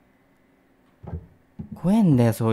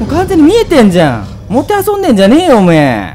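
angry yell; 10 semitones higher, 10 dB louder than usual. Real, not acted. Yelling at monster toying with him.

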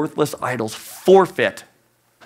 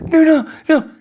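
panicked no; 12 semitones higher, 5 dB louder than usual. Retold or imitated. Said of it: "The person's like".

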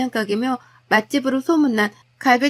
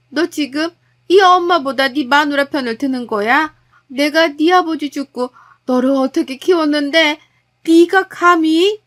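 outraged mother; 2 semitones higher, 5 dB louder than usual. Acted. Mother hearing son side with his wife, outraged. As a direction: rebuke him as an ungrateful son.

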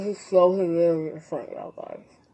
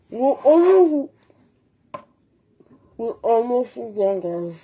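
laughing with mouth full. Real, not acted.

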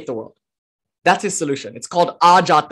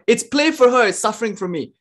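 higher start, then sinking to a hushed, eerie close; chilling and eerie; 5 semitones higher than usual. Retold or imitated. Ramakrishna leaning in to the devotee, lightly eerie and hushed. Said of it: "so chilling and eerie how he says this".

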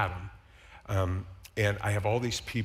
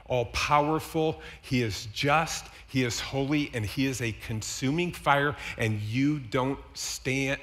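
solemn slow warning; slower than usual. Retold or imitated. Solemn warning to dying man.

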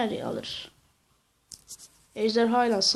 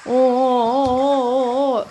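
excited; 2 semitones higher, 6 dB louder, much slower than usual. Real, not acted. Excited at huge explosion.

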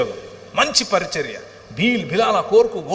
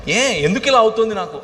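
raised, pressing why-me question; pleading question to God; 5 semitones higher, 3 dB louder than usual. Shown as a demonstration. Preacher showing the congregation how to ask God, pleading. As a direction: cry it out to God. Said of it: "ఆయన్ని అడుగు".

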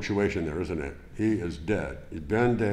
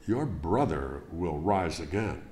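matter-of-fact; 4 semitones lower than usual. Acted. Preacher voicing Jesus answering Martha, matter-of-fact. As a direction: state it flatly, no comfort added. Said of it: "very matter-of-factly".

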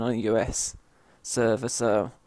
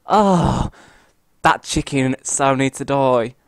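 loud annoyance; 8 dB louder than usual. Real, not acted. Angry at killer player.

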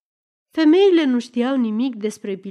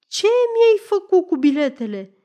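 high, raised angry cry; furious roar; 8 semitones higher, 4 dB louder than usual. A narrator's reading. Lefter demanding his tickets, furious roar. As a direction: roar the accusation. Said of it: "răcnește îngrozitor".

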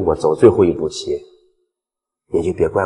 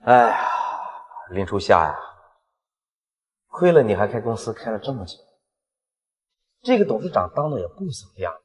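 mocking villain; 2 semitones higher than usual. Villain mocks heroine.

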